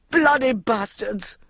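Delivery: slurred shouting; drawn-out shout. A narrator's reading. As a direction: stretch the curse out with relish. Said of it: "shouted Jude".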